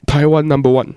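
a light Korean tourist impression; imitating a Korean tourist. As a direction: point and cheer like a friendly Korean backpacker. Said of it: "他就会指着你".

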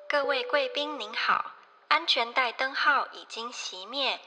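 gentle flight attendant PA voice; in-flight announcement. Pretend. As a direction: announce it to the cabin politely. Cabin announcement in Chinese.

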